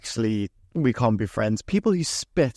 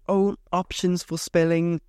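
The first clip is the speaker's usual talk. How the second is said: lightly mocked spellchecker, raised pitch; higher-pitched mock software voice; mock computer prompt; 5 semitones higher than usual. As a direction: imitate a pestering autocorrect pop-up, higher. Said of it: "It says".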